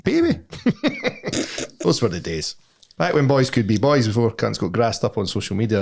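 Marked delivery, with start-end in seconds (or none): 0.0-1.8 exultant yelp. Real, not acted. Boasting about old days.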